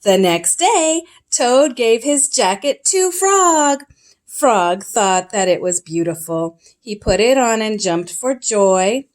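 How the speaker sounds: gentle read-aloud storyteller voice; storybook reading. A narrator's reading. Parent reading Frog and Toad to a child, storytelling. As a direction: read it like a bedtime picture book.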